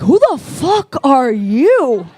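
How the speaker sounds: a hint of a groggy stranger; startled guy. The guy waking beside her, slow and shocked. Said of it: "And they're like".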